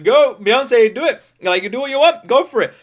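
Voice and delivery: loud, high cheer; excited cheering from the crowd; cheering her on. Retold or imitated. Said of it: "smiling and going".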